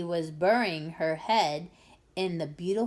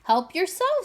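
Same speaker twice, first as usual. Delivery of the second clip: generous call; 10 semitones higher, 5 dB louder than usual. A narrator's reading. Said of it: "said the Duke".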